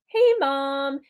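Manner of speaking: inviting "Hey, Mom"; warm greeting. Shown as a demonstration. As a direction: greet mom like you want to connect. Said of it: "but the tone".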